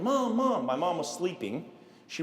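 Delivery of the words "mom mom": high, louder cry for help; imitated screaming for mom. Boy running into the house for mom, mock screaming. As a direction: call out like a panicked kid. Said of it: "I'm, like, screaming".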